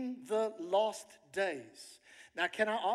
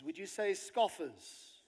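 normal talking voice

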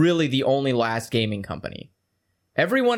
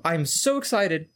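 sarcastic excitement; slower than usual. Retold or imitated. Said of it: "went like".

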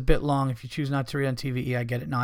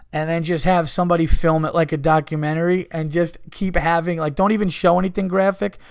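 excited; 3 semitones higher, 6 dB louder than usual. Real, not acted. Co-host laughing, excitedly pitching idea.

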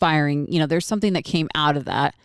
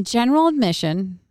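event host announcing; 4 semitones higher than usual. Retold or imitated. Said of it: "She goes".

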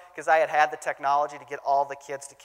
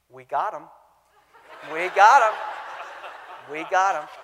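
gleeful; 5 dB louder than usual. Retold or imitated. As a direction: gloat with a laugh. Youth pastor's gleeful inner thought.

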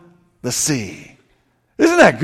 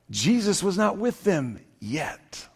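whisper; 3 semitones lower, 13 dB quieter than usual. Real, not acted. Whispered reveal in sermon.

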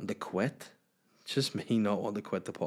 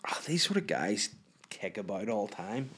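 whispered aside. Real, not acted. Whispered aside about creeps.

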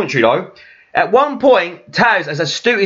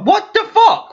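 laughing outburst; slower than usual. Retold or imitated. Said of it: "I think I was like".

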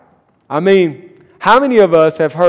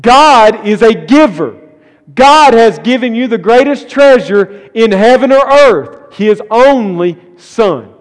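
slow, louder, higher cry of praise; proclaiming shout; 4 semitones higher, 5 dB louder than usual. Retold or imitated. John shouting the good news to us, loud and slow. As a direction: call it out as if John were shouting it. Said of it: "as if John is shouting to us".

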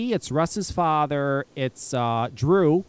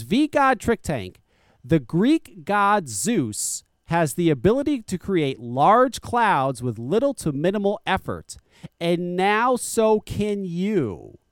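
slow, drawn-out mocking read of the ad copy; slower than usual. Host mocking the vape tank ad, slow sarcastic read. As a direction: read the ad copy like a cheesy commercial. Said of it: "This is what it says on their website".

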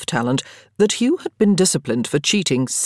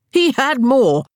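higher, louder gleeful claim; triumphant; 9 semitones higher, 5 dB louder, slower than usual. A narrator's reading. Daniel triumphantly telling friends he counted. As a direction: announce it like a winning point.

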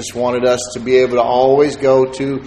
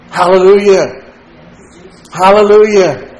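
joyful exclamation; 4 semitones higher, 5 dB louder than usual. Real, not acted. Preacher exclaiming praise.

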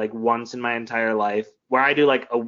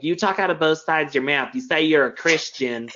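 put-on Southern accent; 2 semitones higher than usual. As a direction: imitate a disapproving critic in a Southern accent. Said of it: "you do it in a Southern accent".

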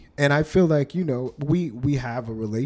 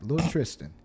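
leering. Acted. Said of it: "You sound like that creepy uncle".

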